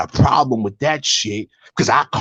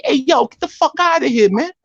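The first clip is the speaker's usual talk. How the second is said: much higher, incredulous yo get outta here; disbelieving outburst; 10 semitones higher than usual. Retold or imitated. Retelling his reaction to the news about the feds, higher and incredulous. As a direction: throw it up high in disbelief. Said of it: "I was like".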